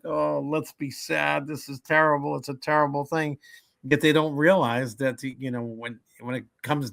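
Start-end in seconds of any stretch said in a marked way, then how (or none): 0.0-3.4 mock gloomy mourner. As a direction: ham up a gloomy Sicilian mourner. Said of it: "the Sicilian side is like".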